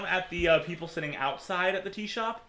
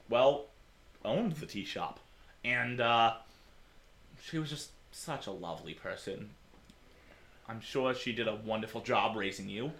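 gentle condolences; 3 semitones lower, 4 dB quieter than usual. Acted. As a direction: comfort her gently. Old man offers condolences softly.

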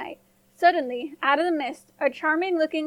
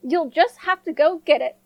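louder, curt command; angry stepmother; 2 semitones higher, 5 dB louder than usual. A narrator's reading. Stepmother ordering the girl to fetch it, louder. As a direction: order her down the well. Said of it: "with an angry humph".

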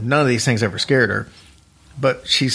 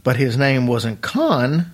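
voice cracking; slower than usual. Real, not acted. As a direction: voice cracks on Con. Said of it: "Sorry, my voice cracked".

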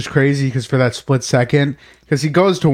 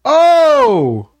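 sharp high startled oh; shocked gasp; 10 semitones higher, 5 dB louder than usual. Real, not acted. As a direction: recoil at the clip. Shocked at axe video.

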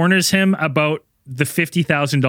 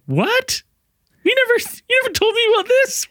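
squeaky high, put-on girlish voice, half laughing; mock girlfriend. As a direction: play the shocked girlfriend in a high silly voice. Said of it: "the girl is like".

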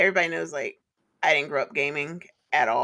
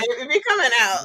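put-on Atlanta accent; 7 semitones higher, 6 dB louder than usual. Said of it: "I'm like".

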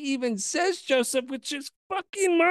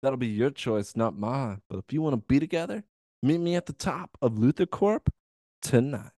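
deep brooding voice; 11 semitones lower than usual. Retold or imitated. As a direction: brood like a villain. Deep villain voice for Lex.

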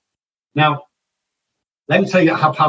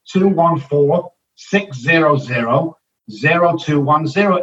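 slow, clear number; slower than usual. Shown as a demonstration. Giving listeners his cell number, slow and clear. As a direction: read two one four digit by digit, slowly. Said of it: "call me".

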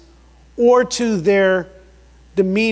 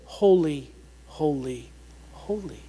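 fading from usual voice to near whisper; reverent fade; 5 semitones lower, 7 dB quieter than usual. Real, not acted. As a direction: let each repetition sink lower and softer. Solemn repetition, fading away.

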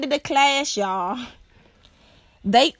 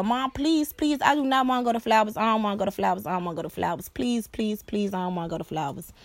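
begging; 4 dB quieter, faster than usual. Retold or imitated. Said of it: "begging and pleading my mother".

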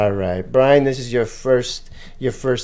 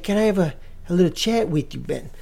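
higher put-on old-man voice, asking; Giovanni; 5 semitones higher, 3 dB quieter than usual. G-Money asks Ben for a chat, high put-on voice. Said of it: "He's like".

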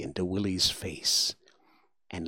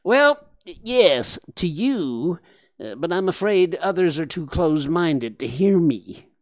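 high nasal creature voice, a bit sheepish; a wet, nasal warthog explaining; 7 semitones higher, 5 dB louder than usual. Acted.

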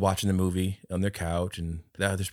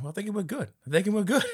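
bad Boston accent; 12 semitones higher, faster than usual. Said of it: "horrible Boston accent".

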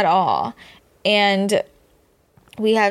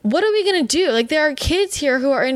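worked up; 5 semitones higher than usual. Real, not acted. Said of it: "sorry, I'm getting worked up".

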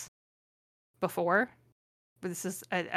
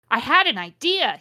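high, loud burst; exclaiming; 4 semitones higher, 7 dB louder than usual. A narrator's reading. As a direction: exclaim it with sudden inspiration. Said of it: "he exclaimed".

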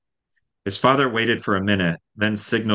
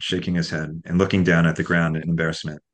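ordinary delivery

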